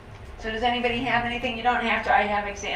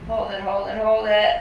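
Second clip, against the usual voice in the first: talking while holding breath. Shown as a demonstration. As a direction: squeeze in and hold the breath. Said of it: "hold your breath".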